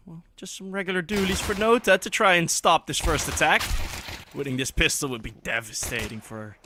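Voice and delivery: play-by-play commentary. Acted. Starts casting the round.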